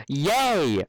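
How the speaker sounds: high loud happy yay; a filly cheering for bubbles; joyful cry. Acted. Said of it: "cried Apple Bloom".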